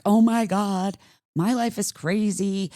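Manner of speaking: frantic, overwhelmed exclamation; frazzled. Retold or imitated. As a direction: play someone frazzled and panicked. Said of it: "you have all this crazy energy".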